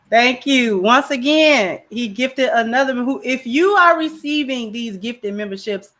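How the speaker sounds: emphatic announcer-style thanks; membership shout-out. Acted. Streamer asking chat to applaud a membership gifter, shout-out voice. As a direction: call for applause like a stream host.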